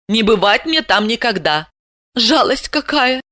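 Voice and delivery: put-on high young woman voice, rueful; Asya's thoughts. Asya fretting over losing her invitation, high voice.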